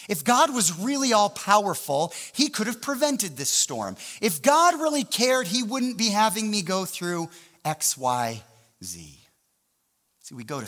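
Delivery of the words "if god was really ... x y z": higher-pitched grumbling at God; indignant complaint. Acted. A believer grumbles about God during a storm, indignant. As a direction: voice a doubter's mild mock protest.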